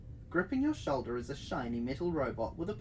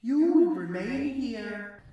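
high, slow, loud robot announcement; 6 semitones higher, 7 dB louder, slower than usual. A narrator's reading. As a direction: announce it like a machine. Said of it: "the robot announces".

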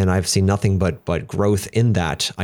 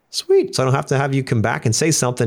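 "Sweet" squeaked very high, the rest quick; mock his wife's delight, shooting up on the first word; 4 semitones higher than usual. Husband imitating his relieved wife, high and quick. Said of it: "my wife's like".

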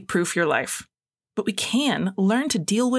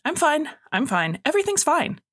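higher-pitched mock "I'm fine"; acted denial, pitched up; insistent self-reassurance; 6 semitones higher than usual. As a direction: insist lightly, voice climbing, as if brushing feelings off. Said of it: "saying it out loud".

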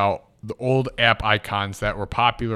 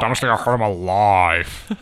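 Landon impression; 4 semitones lower, 3 dB louder than usual. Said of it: "Shout out to Landon".

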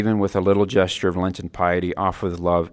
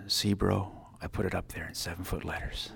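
a touch softer, mildly intimate God voice; gentle voice of God; 8 dB quieter than usual. Retold or imitated. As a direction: lean in and say it gently, lightly voiced. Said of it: "God just leans in and gently says".

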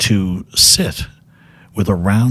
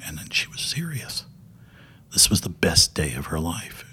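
whispered aside; 2 semitones lower, 6 dB quieter than usual. Real, not acted. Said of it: "whispered emphasis".

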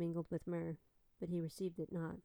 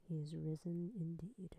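soft whispered He is risen indeed; 5 dB quieter than usual. Real, not acted. Answering her own Easter call in a whisper. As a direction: let the answer fall to a whisper.

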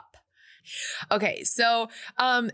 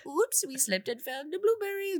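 put-on silly giddy girls; 9 semitones higher, 3 dB quieter than usual. Girls voiced after slipping, having fun.

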